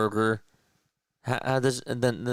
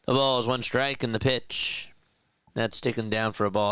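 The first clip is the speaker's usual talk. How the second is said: play-by-play call. Acted. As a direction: call the count like a TV broadcaster. Live play-by-play of his game.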